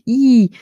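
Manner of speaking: short bright "I" held at the front of the mouth; crisp open "I"; bright I vowel. Shown as a demonstration. Scholar showing students a clear vowel, bright. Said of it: "je vous invite à articuler I".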